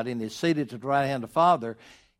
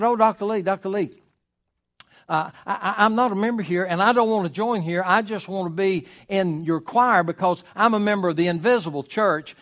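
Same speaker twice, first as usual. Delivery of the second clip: lightly higher-voiced pleading lady; a hint of an earnest church lady, pitched up; mock-earnest lady's plea, a touch higher; 5 semitones higher than usual.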